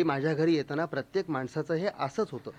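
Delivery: soft, courteous and soothing, a hint of a refined lady; Waheeda Rehman's gentle hostess voice. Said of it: "ती म्हणली".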